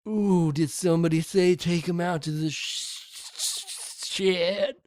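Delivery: delighted rising voice; gleeful mock excitement.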